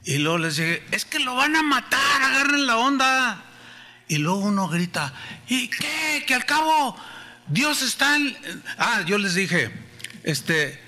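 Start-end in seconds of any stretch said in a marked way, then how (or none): 0.9-3.4 urgent plea. Retold or imitated. Pleading with gang. 5.5-8.4 mocking taunt. Gang boy taunt.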